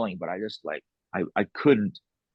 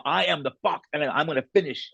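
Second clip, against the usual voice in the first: defiant declaration; 5 semitones higher than usual. Retold or imitated. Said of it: "I literally said to her".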